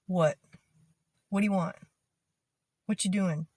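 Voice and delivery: "What" said as wut, the A turned to a U; Southern "What do you want?", wut; Texan wut. Shown as a demonstration. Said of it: "We put a U in there".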